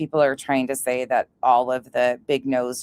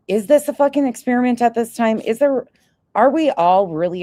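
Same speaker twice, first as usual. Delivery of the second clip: higher, louder incredulous rant; incredulous outburst; 8 semitones higher, 5 dB louder than usual. Real, not acted. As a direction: let the disbelief climb. Outraged rant about the universe.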